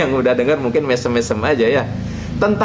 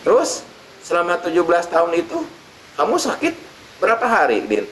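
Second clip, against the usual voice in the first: kiai voice; 5 semitones higher than usual. Acted. Kiai questions Udin.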